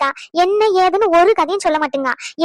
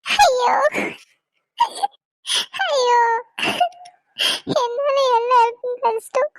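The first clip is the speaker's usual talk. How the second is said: crying; 3 semitones higher than usual. Acted. Alone, crying over trouble caused.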